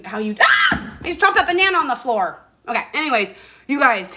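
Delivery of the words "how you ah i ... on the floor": sudden high yelp of surprise as something drops; startled cry. Real, not acted. Vlogger startled when her banana hits the floor, yelping. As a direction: cry out at the dropped banana, then grumble.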